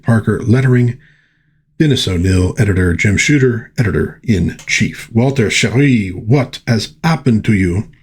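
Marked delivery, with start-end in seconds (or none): 5.1-7.9 put-on lightly French-accented Aurora. Aurora speaking to Walter, lightly French-accented. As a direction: ask it with a touch of a French accent. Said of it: "her French accent in Aurora".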